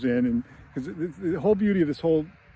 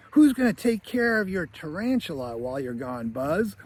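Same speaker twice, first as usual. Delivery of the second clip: put-on higher-pitched curious child's question; kid cousin; 3 semitones higher than usual. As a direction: lightly imitate a young cousin asking. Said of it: "one of the other multitudes of cousins".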